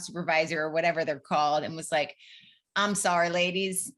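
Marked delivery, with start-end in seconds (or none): 2.7-3.9 put-on Southern accent. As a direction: camp director with a light Southern accent. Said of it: "giving him a Southern accent".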